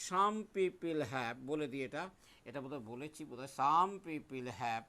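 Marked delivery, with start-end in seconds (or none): 0.1-1.4 very slow, drawn-out chant; slow recitation. Shown as a demonstration. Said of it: "একটা কবিতা তোমাদের মুখস্থ করতে হয়". 3.6-4.8 very slow, drawn-out chant; slow recitation. Shown as a demonstration. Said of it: "এই কবিতাটা মুখস্থ রাখবে".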